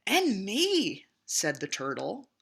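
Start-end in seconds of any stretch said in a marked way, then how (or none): 0.1-1.1 higher, louder eager voice; eager chime-in. A narrator's reading. The turtle offers friendship, high and eager. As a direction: jump in happily.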